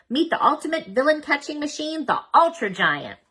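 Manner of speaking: grand unveiling. A narrator's reading. Mom unveils invention grandly.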